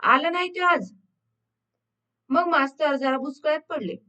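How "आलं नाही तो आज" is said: lightly voiced children's chorus; mild chorused shout. A narrator's reading. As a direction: sing out the answer like a class, understated. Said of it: "एका सुरात एकदम ओरडली". (वर्गाच्या सुरात हलकंसं ओरडून)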